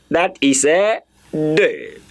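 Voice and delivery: slow teacher model of deux, ending in a rounded "ø"; model word deux. Shown as a demonstration. Teacher models the French number for the class. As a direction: say "deux" slowly with a rounded vowel at the end. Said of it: "Let me say deux".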